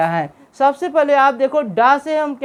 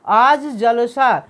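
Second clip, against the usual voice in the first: slow example reading; much slower than usual. Shown as a demonstration. Teacher reading the joined example to students, slow and deliberate. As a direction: slowly read "आज जलसा" as one joined word, जलसा meaning festival. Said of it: "जलसा साथ में लिख दिया है हमने".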